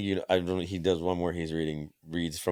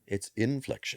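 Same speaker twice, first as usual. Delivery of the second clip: "inflection" pitched up high; high-pitched demo of "inflection"; higher inflection; 6 semitones higher than usual. Shown as a demonstration. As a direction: lift the whole phrase higher.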